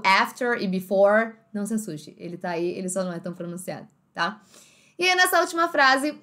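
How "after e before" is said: "after" and "before" with final Rs sounded; American Rs. Shown as a demonstration. Teacher naming the missing sound, R-ful "after" and "before". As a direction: pronounce the R closing "after" and "before". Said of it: "o R do".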